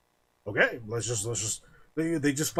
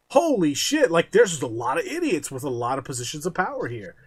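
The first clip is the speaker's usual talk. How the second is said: loud, high burst of shock; a sudden yelp of realization; stunned disbelief; 3 semitones higher, 3 dB louder than usual. Retold or imitated. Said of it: "I was like".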